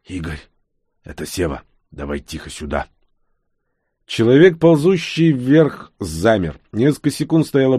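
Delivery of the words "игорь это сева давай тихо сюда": softly calling into the dark; low-key, softened voice; quiet call. A narrator's reading. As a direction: keep it hushed and a little low. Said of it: "он тихо сказал в темноту".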